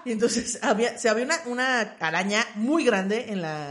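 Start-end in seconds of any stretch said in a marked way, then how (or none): none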